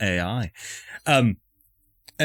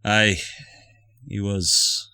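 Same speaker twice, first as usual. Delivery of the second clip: put-on Scottish accent. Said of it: "I picked up this accent".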